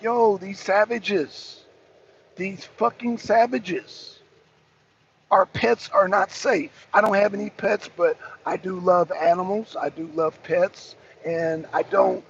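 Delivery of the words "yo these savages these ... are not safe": slow, disgusted mock outrage. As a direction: drag it out, appalled at the savages. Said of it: "And I'm like".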